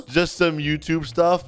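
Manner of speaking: slow, mocking echo rising at the end; mocking repeat. Bully echoing the victim's answer, mocking. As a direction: parrot it back as a taunt.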